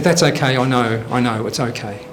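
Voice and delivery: soothing. Acted. Wife soothes dying, confessing husband.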